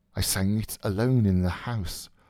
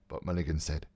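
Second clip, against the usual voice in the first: usual speaking voice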